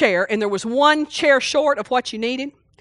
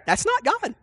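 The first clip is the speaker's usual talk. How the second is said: mock voice of God; 8 semitones higher, 3 dB quieter than usual. Shown as a demonstration. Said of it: "he wouldn't say".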